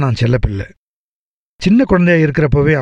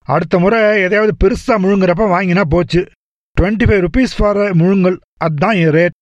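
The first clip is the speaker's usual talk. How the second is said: higher, chatty doctor voice, breezy and teasing; jovial doctor; 5 semitones higher than usual. Acted. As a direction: play the cheerful family doctor gossiping. Doctor jokes about fee. (உற்சாகமான doctor குரல்)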